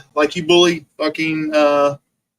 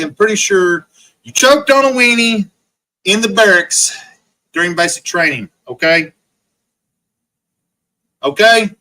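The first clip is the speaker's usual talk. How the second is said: mocking taunt; 2 semitones higher, 4 dB louder than usual. Real, not acted. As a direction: rub it in loudly. Taunting rival on stream.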